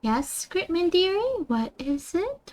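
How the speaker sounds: slow, gentle mommy voice; nice and soft and slow. Shown as a demonstration. Streamer demos her mommy voice to viewer Gritman, soft and slow. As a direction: coo softly and slowly like a doting mother. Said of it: "going nice and soft and slow".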